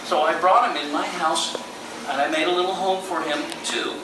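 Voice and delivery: put-on lively storytelling for children; on stage.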